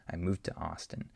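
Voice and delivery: "moved to Austin" with no audible d; d absorbed by the t; d blends into t. Shown as a demonstration. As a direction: swallow the d into the t. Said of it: "The D just blends in".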